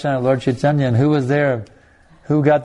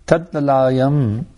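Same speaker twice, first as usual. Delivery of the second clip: drawn-out Sanskrit word; slow verse recitation; much slower than usual. Shown as a demonstration. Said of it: "I just quoted that verse".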